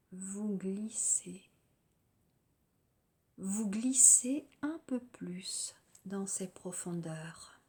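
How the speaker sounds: calm, unhurried guided-relaxation voice with long pauses; lightly meditative delivery, letting phrase endings settle; guided yoga nidra. Real, not acted. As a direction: guide listeners gently into rest, phrase by phrase.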